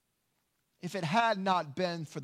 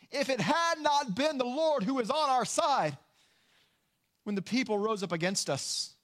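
higher, lifted recitation leading the crowd; call to join in; 5 semitones higher than usual. Acted. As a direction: lift it up so everyone joins in. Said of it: "everybody sing with me".

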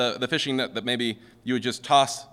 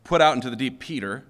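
singular command; 4 dB louder than usual. Shown as a demonstration. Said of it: "the first one is".

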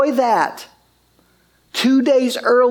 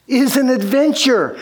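excited realization; 4 semitones higher than usual. Retold or imitated.

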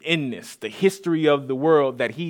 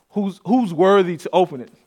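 louder, higher proclamation; calling out; 4 semitones higher, 6 dB louder than usual. Retold or imitated. Preacher quoting the angel's call to all, proclaiming loudly. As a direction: proclaim it out like a herald. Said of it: "or calling, proclaiming out this".

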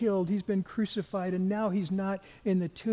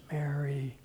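gentle; 3 semitones lower than usual. Retold or imitated. Jesus makes himself known to Mary, gently. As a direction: call her name gently. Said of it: "he just gently says".

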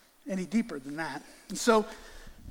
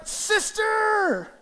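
called greeting; 12 semitones higher than usual. Shown as a demonstration. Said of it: "No, you shout".

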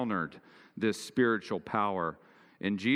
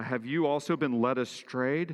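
pretentious voice; 4 semitones higher than usual. Acted. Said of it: "in a pretentious voice".

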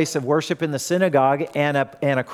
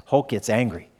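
ordinary delivery

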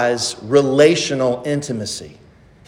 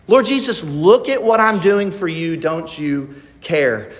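complaining Martha. Acted. Preacher voices Martha scolding Jesus.

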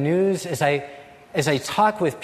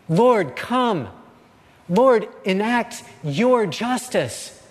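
raised, pleading call, slowing on justice; crying out; 5 semitones higher, 3 dB louder, slower than usual. Acted. Habakkuk begging the Lord to act, loud slow plea. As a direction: call on God again, urgently. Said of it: "He cries out again and again".

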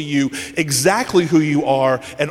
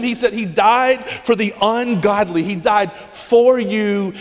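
raised pitch, driving emphasis on each phrase; fervent, high-pitched insistence; impassioned preaching; 5 semitones higher than usual. Real, not acted. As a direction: hammer the point home to the congregation. Preacher driving the point home.

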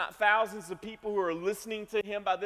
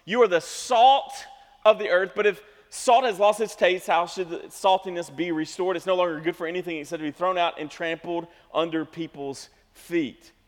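scripture reading; 4 dB louder than usual. Acted. Reads scripture passage.

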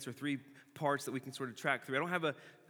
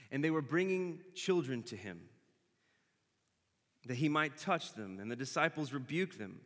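scripture reading. Acted. Reads scripture aloud.

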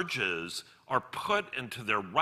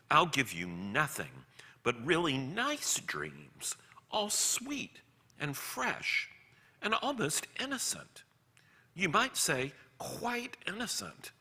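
hushed, wheedling lizard; coaxing whisper; 4 semitones higher, 4 dB quieter than usual. A narrator's reading. Lizard tempting the man with nice dreams, coaxing whisper. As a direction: whisper it temptingly, soft and high.

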